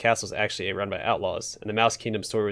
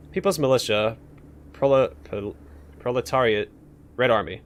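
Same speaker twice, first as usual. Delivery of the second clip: tic outburst. Acted. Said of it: "Oops, sorry for that".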